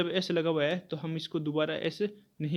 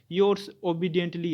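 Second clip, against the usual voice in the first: yours obediently stretched out very slowly; slow dictation; 3 dB louder, much slower than usual. Shown as a demonstration. Teacher dictating an example to the class, very slowly. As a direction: dictate each word slowly so students can write.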